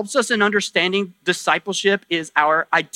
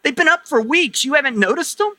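higher-pitched mock bewilderment; playfully put-on surprise, pitched up; puzzled churchgoer; 4 semitones higher than usual. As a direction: act out a baffled congregant's question and answer. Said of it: "some of you are gonna go like".

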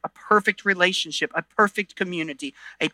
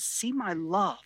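tender Jesus voice. Retold or imitated. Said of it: "what he's saying to you is".

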